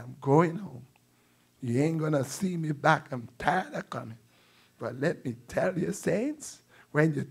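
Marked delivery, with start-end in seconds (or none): 0.0-4.2 teary. Real, not acted. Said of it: "I get teary".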